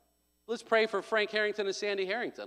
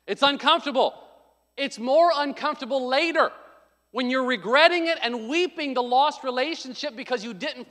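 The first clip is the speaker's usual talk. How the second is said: high, loud and insistent; impassioned preaching; 6 semitones higher, 5 dB louder than usual. Real, not acted. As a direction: drive each phrase home from the pulpit. Preacher urges facing problems.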